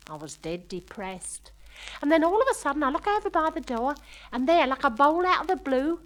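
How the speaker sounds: lightly voiced London shop girl gossiping about her date; chatty young working-class girl. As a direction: tell it like a giddy girl confiding to a friend. Girl recounts her dance night.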